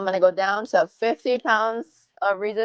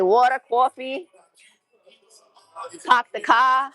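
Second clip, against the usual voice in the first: northern accent demo; 3 semitones higher, slower than usual. Shown as a demonstration. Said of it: "I don't talk like that either".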